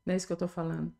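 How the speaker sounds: low, unhurried, tender retold voice; gentle reassurance. Jesus reassures her about her accent, gently.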